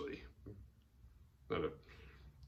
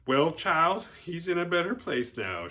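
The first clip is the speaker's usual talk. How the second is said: put-on old woman voice; 6 semitones higher, 4 dB louder than usual. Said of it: "talks like a black woman".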